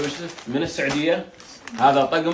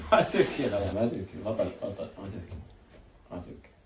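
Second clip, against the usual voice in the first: fading to a hushed, low murmur; near whisper; 6 semitones lower, 8 dB quieter than usual. Real, not acted. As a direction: soothe him almost silently. Hushing the crying boy. (همس مهدئ يخفت تدريجيًا)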